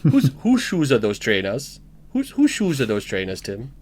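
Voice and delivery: lightly put-on Welsh practice phrase; Welsh accent warm-up. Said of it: "I need to keep Jimmy Carring".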